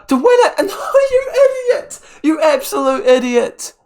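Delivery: high, loud wail of disbelief at the miss; anguished scream. Real, not acted. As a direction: scream as the chance is blown. Late miss in a football game.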